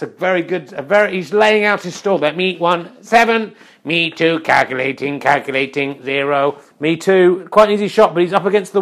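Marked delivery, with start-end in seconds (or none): 2.3-6.6 lightly robotic scorekeeper; mildly mechanical monotone, word by word. Acted. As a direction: announce the score like a simple computer. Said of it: "let's go to the robot voice".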